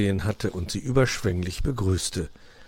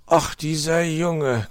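drawn-out, higher-pitched grumbling sigh of words; disappointed growl; 8 semitones higher, 4 dB louder, slower than usual. A narrator's reading. Uncle fox about his nephew, grumbling with disappointment. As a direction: grumble slowly, let down. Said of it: "knurrte Herr Fuchs enttäuscht".

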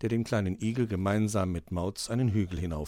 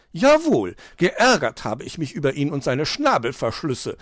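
mildly indignant; 2 semitones higher, 4 dB louder than usual. Acted. Magpie vents to children about fox, mildly indignant. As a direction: huff as an annoyed magpie.

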